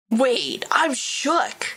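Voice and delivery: breathy shocked whisper; hushed disbelief; stunned whisper. Real, not acted. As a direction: whisper it, floored. Stunned reaction.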